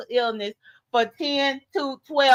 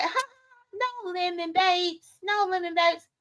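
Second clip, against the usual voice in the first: gentle; 4 semitones higher, 5 dB quieter than usual. Retold or imitated. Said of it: "Tracy was being so nice and gentle with him".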